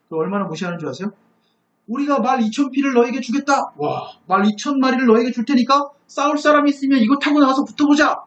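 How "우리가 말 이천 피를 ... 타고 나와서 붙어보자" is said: higher-pitched jeering dare; mocking challenge. Envoy daring the besieged to ride out and fight, mocking. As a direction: taunt them as an enemy envoy would. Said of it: "막 조롱하는 거예요".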